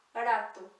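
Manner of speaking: barato with a light tapped r; single tap R. Shown as a demonstration. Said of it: "só um R ... no meio".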